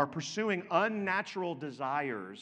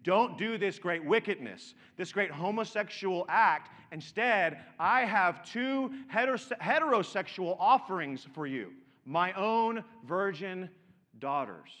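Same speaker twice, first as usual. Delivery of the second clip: Lot's plea; 3 semitones higher, 5 dB louder than usual. Retold or imitated. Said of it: "what he is saying".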